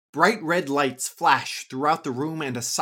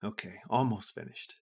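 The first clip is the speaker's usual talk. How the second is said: muttering; 4 semitones lower, 6 dB quieter than usual. A narrator's reading. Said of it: "Sani mutters".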